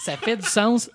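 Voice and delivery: loud, high, mocking the wrong phrase; mocking the anglicism. Shown as a demonstration. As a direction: say it like the bad anglicism. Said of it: "c'est une expression anglophone traduite".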